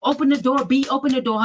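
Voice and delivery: mock yell; retold banging demand. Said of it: "he's banging on my door".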